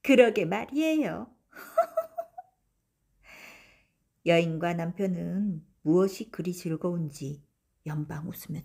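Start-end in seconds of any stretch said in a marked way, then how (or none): 0.0-2.6 wife laughing along. A narrator's reading.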